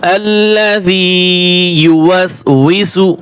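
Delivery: drawn-out tajweed chant; slow Quran recitation. Shown as a demonstration. Teacher reciting the verse for students. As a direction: recite slowly, stretching vowels.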